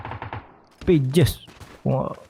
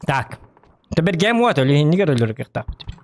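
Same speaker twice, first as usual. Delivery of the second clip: ordinary delivery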